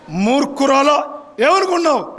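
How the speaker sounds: mock angry retort. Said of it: "అది కోపం".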